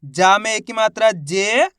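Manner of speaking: drawn-out syllable by syllable reading; teacher spells out the first letter slowly; slow sounding out. Shown as a demonstration. Teacher shows how to read a word, slowly. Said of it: "चलिए देखिए".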